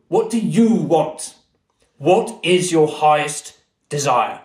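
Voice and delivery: a lightly voiced genie, slow and grave; solemn English genie. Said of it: "And he goes".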